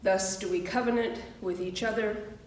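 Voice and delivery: steady, solemn unison recitation; recited covenant. Real, not acted. Minister leads the congregation in their covenant, solemn recitation. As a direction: recite it together as a vow.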